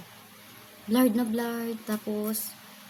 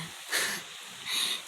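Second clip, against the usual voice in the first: embarrassed breathy laugh; 6 dB quieter than usual. Real, not acted. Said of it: "oh, sorry ha".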